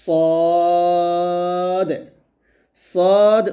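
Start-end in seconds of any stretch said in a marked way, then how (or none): 0.0-1.9 সদ with a thick, heavy s and held vowel; heavy s demo. Shown as a demonstration. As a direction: say সদ heavy, lips unrounded. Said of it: "তাহলে এটা বলতে হবে".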